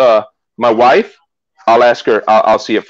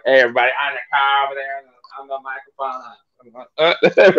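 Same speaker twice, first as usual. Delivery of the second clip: quick, mumbled mock Massachusetts accent; 4 dB quieter, faster than usual. Host mimicking Joe's video intro, mock Massachusetts accent. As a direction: imitate a thick Massachusetts accent, rattled off indistinctly. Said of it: "we were talking about your accent".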